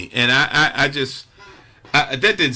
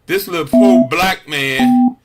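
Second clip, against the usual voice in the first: indignant outburst; 3 semitones higher, 6 dB louder than usual. Real, not acted. Indignant rant about the alderwoman.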